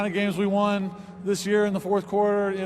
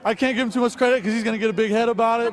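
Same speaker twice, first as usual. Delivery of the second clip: playful raised voice; 4 semitones higher, 4 dB louder than usual. Real, not acted. Teasing teammate, playful raised voice.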